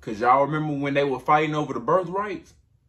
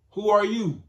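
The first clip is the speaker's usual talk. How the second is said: startled question; 8 semitones higher than usual. Retold or imitated. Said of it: "Isaac like".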